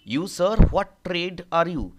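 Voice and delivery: commanding question. Acted. Tribune questioning the cobbler.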